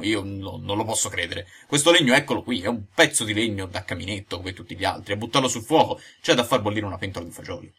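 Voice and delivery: a touch of stammering fright; trembling and stammering. Acted. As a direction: stumble over the words, mildly scared. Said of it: "cominciò a dire tremando e balbettando dallo spavento". (balbettando leggermente per lo spavento)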